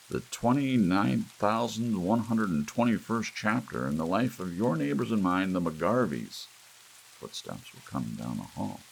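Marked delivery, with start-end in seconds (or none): 0.1-6.5 high, loud broadcast announcer voice; television announcer. A narrator's reading. TV announcer closing the episode to viewers, booming. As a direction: sign off the show like a TV announcer. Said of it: "said the television announcer".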